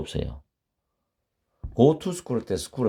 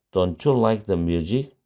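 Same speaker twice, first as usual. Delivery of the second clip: slow model question; much slower than usual. Shown as a demonstration. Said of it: "teacher models the question slowly".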